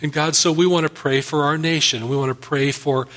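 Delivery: earnest, measured pastor's prayer; closing prayer. Acted. Pastor praying for the congregation and nation, earnest prayer. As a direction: pray it over the congregation, steady and sincere.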